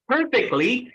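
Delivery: "perfectly" with a puffed American P; American accent. Shown as a demonstration. Trainer has the class feel a blow, American accent "perfectly". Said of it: "say it like an American".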